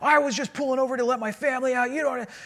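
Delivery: high-pitched, furious, angry screaming rant. Speaker recounts a driver angry over a parking spot, imitating a man yelling. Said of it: "he's just yelling and screaming at me".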